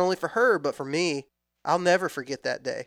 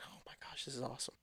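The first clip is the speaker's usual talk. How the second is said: breathless little whisper of delight; excited whisper; 21 dB quieter, much faster than usual. Retold or imitated. Little girl thrilled by gobbling, whispering. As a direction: whisper it so the turkey won't hear.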